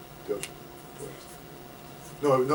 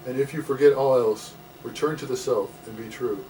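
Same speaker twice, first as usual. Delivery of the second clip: measured, phrase-by-phrase recital of teachings; deliberate spoken verse; poetry reading. Acted. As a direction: read each line as counsel, pausing after it. Reading own poem aloud.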